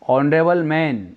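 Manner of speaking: "ऑनरेबल" beginning on O, no H; silent H. Shown as a demonstration. Teacher gives students an example, "ऑनरेबल" with silent H. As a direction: open "ऑनरेबल" straight on the vowel. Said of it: "ओ उच्चारण आ रहा है".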